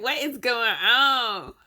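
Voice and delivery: slow, drawn-out mock annoyance; imitating annoyed boyfriend. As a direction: stretch it out as a mildly miffed boyfriend. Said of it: "He's mad right now".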